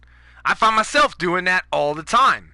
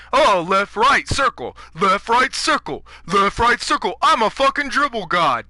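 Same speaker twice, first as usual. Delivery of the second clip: mocking dribbler; 4 semitones higher, 3 dB louder than usual. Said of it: "you fucking zigzag bitches".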